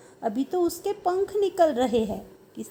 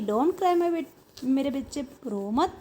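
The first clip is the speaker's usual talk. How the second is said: lovingly; slower than usual. Retold or imitated. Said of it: "प्यार से बोला".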